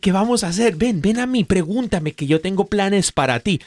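the Holy Spirit eagerly calls the listener closer, excited and high. Acted. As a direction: bubble over with plans for them. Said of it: "Y emocionado dice".

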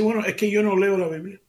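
imitating the young waiter owning up; mild mock waiter. Waiter admits he doesn't read Bible.

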